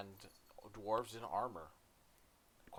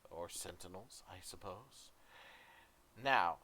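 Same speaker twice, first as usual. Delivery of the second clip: a gracious dwarf queen, warm welcome; 2 semitones higher, 10 dB louder than usual. Acted. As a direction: greet the guests broadly. GM voices the queen.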